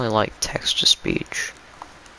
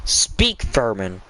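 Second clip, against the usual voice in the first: witch queen voice; much slower than usual. Acted. Witch queen demands an answer.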